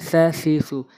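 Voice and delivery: touch tongue to tooth tips for each "স" in "সা সি সু"; tongue-to-teeth th. Shown as a demonstration. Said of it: "দাঁতের আগার সঙ্গে লাগাতে হবে".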